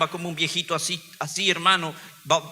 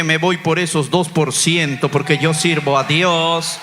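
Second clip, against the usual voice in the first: loud, slow, firm statement of faith; defiant declaration; 5 dB louder, slower than usual. Retold or imitated. Father answers the doctor with loud defiant faith. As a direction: plant your feet and declare it loud.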